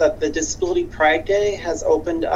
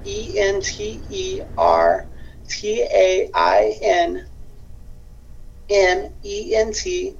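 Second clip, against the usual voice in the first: spelling it out; 4 semitones higher, slower than usual. Shown as a demonstration. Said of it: "could email, the word entertainment".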